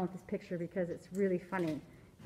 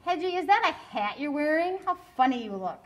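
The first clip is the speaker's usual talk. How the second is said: mild barking dog voice; 5 semitones higher, 4 dB louder than usual. Acted. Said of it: "she barked".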